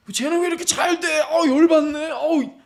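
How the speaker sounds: high, loud fuming outburst; envious anger. Acted. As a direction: act out exasperated jealousy. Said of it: "너 왜 이렇게 화가 나 있어?".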